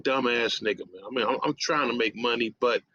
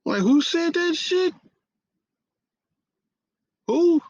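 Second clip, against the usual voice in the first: higher, louder indignant yell; 1 outraged shouting; 5 dB louder than usual. Retold or imitated. Hearing rumors about himself, outraged shout. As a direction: demand to know who said it.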